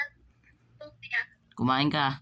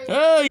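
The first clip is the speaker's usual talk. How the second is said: high, loud startled yelp; sharp cry of alarm, pitch shooting up; 14 semitones higher, 9 dB louder than usual. Real, not acted. Vlogger reacting in sudden surprise, startled yelp.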